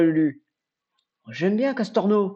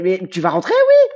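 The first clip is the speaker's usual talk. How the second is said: rising fed-up shout at the game; exasperated yell; 6 dB louder than usual. Real, not acted. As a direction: demand it get in, loudly. Yelling at the Pokémon.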